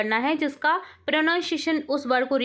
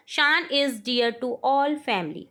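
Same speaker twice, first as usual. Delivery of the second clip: very slow, word by word dictation; much slower than usual. Shown as a demonstration. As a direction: read it out slowly for the class to write. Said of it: "teacher dictates sentence". (धीमे-धीमे बोलकर लिखवाना)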